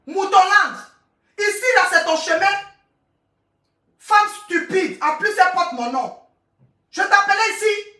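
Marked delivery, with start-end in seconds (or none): 4.0-5.0 slow contempt. Real, not acted. Contemptuous insult at a commenter.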